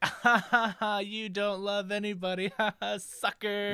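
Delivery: high, taunting mock laugh; hammed-up teasing cackle as Gamora. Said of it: "Gamora's all like".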